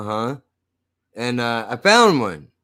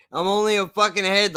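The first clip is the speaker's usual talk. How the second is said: deadpan repeat; 5 semitones higher than usual. Acted. Repeating his own joke to the viewers, now deadpan. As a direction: drop the shock and say it dry. Repeats the gag more calmly.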